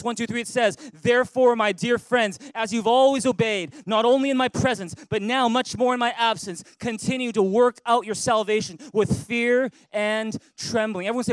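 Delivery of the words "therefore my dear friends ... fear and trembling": louder read-aloud. Real, not acted. Preacher leads Philippians reading aloud with the church, loud. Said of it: "read it with me in a loud voice".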